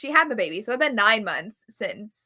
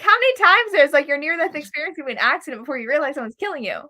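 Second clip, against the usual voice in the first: high, louder incredulous rant; exasperated disbelief; 5 semitones higher, 4 dB louder than usual. Retold or imitated. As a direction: pile on the disbelief. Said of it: "I was like".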